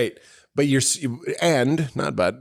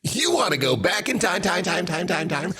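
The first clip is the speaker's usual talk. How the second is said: mock commercial voice; 2 semitones lower than usual. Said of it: "What does that sound like?".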